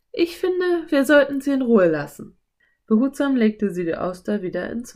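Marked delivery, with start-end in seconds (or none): 0.1-2.4 put-on high girl character voice; Anne. A narrator's reading. Anne wants to spare the oyster, high character voice. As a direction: suggest it in a raised girl's voice.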